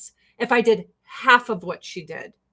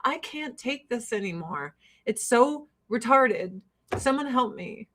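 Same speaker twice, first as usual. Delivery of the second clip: mock despair; 6 dB quieter than usual. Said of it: "And I'm like".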